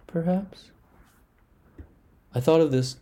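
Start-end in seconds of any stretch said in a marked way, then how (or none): 0.1-0.7 a breathless whispered question. A narrator's reading. Narrator whispering as filaments search for a way in. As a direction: let the doubt hang, whispered. Eerie wondering about intrusion.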